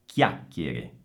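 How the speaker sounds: low CHIACCHIERE, both CH as k; hard C. Shown as a demonstration. Teacher repeats after the H rule, hard-C CHIACCHIERE. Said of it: "rende duro il suono della C".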